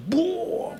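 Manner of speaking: breathy high "boo" whoosh; airy drawn-out splash noise; imitated water rushing in. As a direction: mimic a wave flooding in. Imitates water pouring into the boat.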